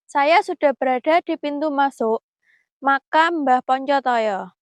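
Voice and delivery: hushed, careful vlog voice; nervous night vlog whisper. Real, not acted. Hushed talk at the grave.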